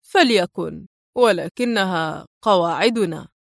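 cool and detached, a touch of disdain; mild icy indifference; cold. Acted. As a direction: say it coldly, unbothered. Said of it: "قال الشاب في برود".

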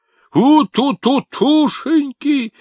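put-on very high, loud, slow squeal of baby talk; sudden shout. Grandfather suddenly shouts baby talk at the toddler. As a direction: pounce at her with a shrill cry. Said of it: "вдруг крикнул Кричмаренко".

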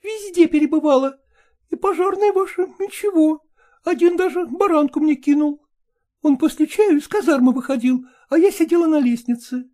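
high, quick, coquettish dog chatter; chattering lady dog. Acted. Ragulya excusing herself to Polkan, high quick chatter. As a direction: prattle on, pleased with yourself.

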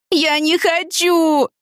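high, very slow wailing refusal; drawn-out high wail; howling refusal. A narrator's reading. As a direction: wail it out like a desperate teen. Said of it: "ревела она".

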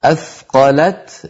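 slow أثقلت ending on a clear t; original still ta. Shown as a demonstration. Teacher showing the original word, clear final t. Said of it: "هي أصلها أثقلت بتاء ساكنة".

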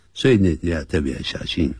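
normal talking voice

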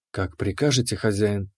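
obedient keeper. Acted. The keeper bows to her master, low and soft. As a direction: answer like a devoted servant.

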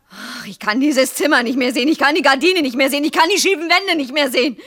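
fed-up litany, building in pitch; exasperated rant. Acted. Wife fed up with their cramped room, exasperated rant. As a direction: let the repeated complaint climb.

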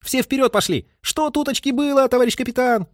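high, eager, rushed report; hurried and cheerful. A narrator's reading. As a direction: blurt the news out gladly. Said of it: "заговорил Скляр поспешно и тоже от чего-то весело".

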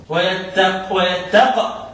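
نطق "ويتق" بقاف ساكنة; الوقوف على قاف "ويتق" بلا حركة; تسكين القاف. Shown as a demonstration. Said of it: "هيسكن القاف". (سكّن القاف في آخر "ويتق")

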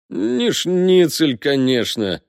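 drawn-out, high opening of a verdict; slow, mock-connoisseur appraisal; deliberating verdict. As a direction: stretch it out like a taster weighing up a dish. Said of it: "констатировал Уткин".

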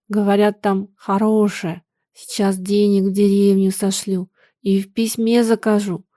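мягко, неторопливо, без слёз в голосе; ровно и спокойно, как будто всё уже решено; calm, even voice. Acted. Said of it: "заговорила другим, спокойным, ровным голосом". (спокойным, ровным голосом)

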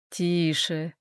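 hushing. A narrator's reading. Hal calming furious Domenica.

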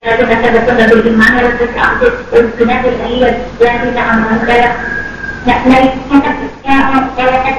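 choppy call audio with dropouts; breaking up. Real, not acted. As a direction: voice cutting in and out on a bad phone line. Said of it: "Suaranya putus-putus".

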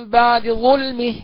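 very slow بعد ظلمه with a faint snatched vowel on the د; just touch the dal's vowel; vowel snatching. Shown as a demonstration. Teacher demonstrating the snatched-vowel reading. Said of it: "نقرأ بالاختلاس هكذا".

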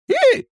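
a sharp, high squeaky hiccup; loud hiccup. A narrator's reading. Old shaman hiccups mid-complaint, a sharp high hiccup. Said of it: "начал икать".

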